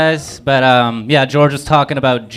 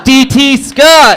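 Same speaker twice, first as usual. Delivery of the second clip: stretched, higher name call; announcer call; 11 semitones higher, 6 dB louder, slower than usual. Real, not acted. Host announcing comic, drawn-out call. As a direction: announce the next comic to the crowd.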